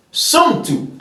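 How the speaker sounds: sumtu said high and drawn out; modelling sumtu. Shown as a demonstration. Teacher modelling sumtu for the class. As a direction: lift the voice on sumtu. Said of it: "So you can say the word sumtu".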